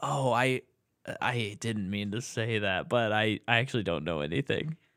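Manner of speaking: play-acted resigned, defeated, stammering delivery. Retelling a movie character's line to another speaker: imitating a defeated tone. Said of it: "says it defeated".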